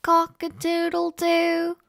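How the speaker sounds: high, quick crow held on one note; crowing rooster. A narrator's reading. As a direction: call it out like a storybook rooster. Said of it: "crowed the rooster".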